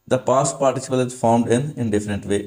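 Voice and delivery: slow, word by word dictation. Shown as a demonstration. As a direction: dictate each word for students to copy. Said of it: "dictating rule slowly". (धीमे-धीमे लिखवाते हुए)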